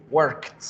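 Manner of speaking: worked said ending on a t sound. Shown as a demonstration. Teacher shows the t ending of worked, said crisply. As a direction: finish worked with a t. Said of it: "con el sonido de la T".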